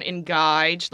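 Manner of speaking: sample words in Australian; Australian accent. Shown as a demonstration. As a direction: show off the Australian accent on each word. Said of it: "Throat's a good one".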